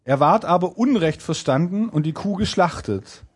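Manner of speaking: measured storybook reading; fairy-tale narration. A narrator's reading. Narrator reading the tailor's narrow escape, storytelling. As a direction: read it out like an old folk tale.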